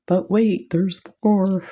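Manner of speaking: playful infomercial pitch; light infomercial host voice; mock infomercial. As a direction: tease it like a TV salesman. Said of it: "I feel like an infomercial".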